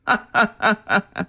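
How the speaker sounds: short soft giggle; a light mocking laugh; girl's laugh. Girl laughs at the nun's question. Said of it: "这女孩子一笑啊".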